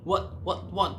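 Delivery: imitating a driver pretending not to understand; mock bewildered what, what, what; feigned confusion. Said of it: "못 알아듣겠다는 식으로". (못 알아듣는 척 흉내)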